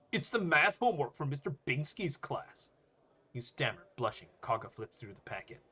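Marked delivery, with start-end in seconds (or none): 0.1-2.7 louder, higher student voice; high, loud, flustered reply. Acted. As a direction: answer up high and nervously. Student answers the booming bully.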